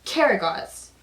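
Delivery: Hasavat voice. Acted. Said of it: "he's talking to Karagos".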